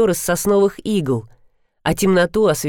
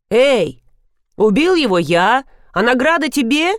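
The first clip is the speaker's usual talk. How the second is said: loud, higher indignant protest; 6 semitones higher, 4 dB louder than usual. Acted. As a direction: protest the unfairness loudly. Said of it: "возмутился Финист". (возмущённо)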